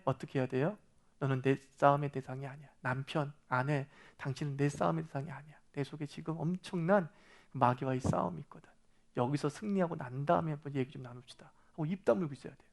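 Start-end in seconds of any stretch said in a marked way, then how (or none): 1.2-11.5 low, softer acted reply; calm refusal. Believer telling a spouse they are not the enemy, calm and quiet. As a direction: decline the quarrel quietly and evenly.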